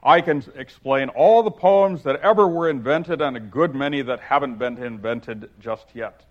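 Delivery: hearty, self-pleased Humpty voice; gaily. Acted. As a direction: boom it out cheerfully as a pompous egg. Humpty voice held.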